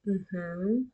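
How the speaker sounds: soft, rising mm-hmm of a quiet listener; a partner's gentle hum of assent; imitating affirming hum. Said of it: "affirmative sounds like".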